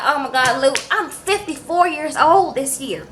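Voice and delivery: indignant rant. Retold or imitated. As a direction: play the outraged client begging to be allowed to get scammed.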